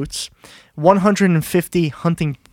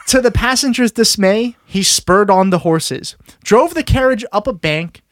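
story read-aloud. Acted. Telling co-hosts of a deliberate carriage crash, dramatic storytelling. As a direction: draw out the reckless action for listeners.

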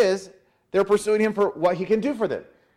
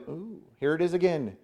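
softer, mildly disdainful groan; lip-raised distaste; 5 dB quieter than usual. Acted. People facing manna once more, mild lip-curled distaste. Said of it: "like you're raising your, your lip".

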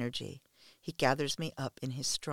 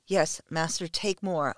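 moaning plea; 3 semitones higher, 5 dB louder than usual. Acted. A submissive begging her master for more, moaning. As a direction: moan the words out, pleading for more. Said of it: "I moan".

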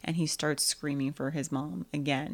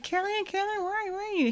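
put-on high, frantic calling for a lost child; calling out for Caroline; much faster than usual. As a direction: call out like a panicked family. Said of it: "And everyone's like".

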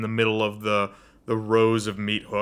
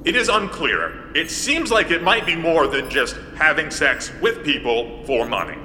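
robot voice; 4 semitones higher than usual. Acted. GM plays robot.

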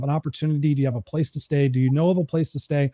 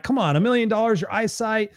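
teasing coax; 7 semitones higher than usual. Acted. Coaxing the quiet crowd.

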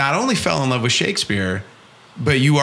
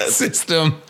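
laughing; 3 semitones higher than usual. Real, not acted. Laughing at own fumbled explanation.

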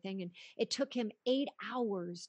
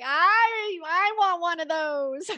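much higher and louder, squealing with longing; gushing want; 9 semitones higher, 13 dB louder, slower than usual. Pretend. Host gushing about the supportive husband, squealing. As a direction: squeal like you want it badly.

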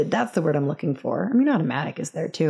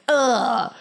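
acted reluctance; 7 semitones higher, much slower than usual. Acted reluctant reaction to picnic.

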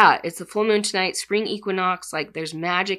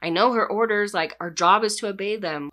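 exploding in anger; 3 semitones higher than usual. Retold or imitated. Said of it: "Folin just kind of explodes".

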